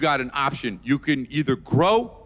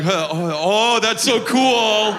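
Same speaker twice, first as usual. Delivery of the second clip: fake impressed; 4 semitones higher, 3 dB louder, much slower than usual. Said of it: "You're like".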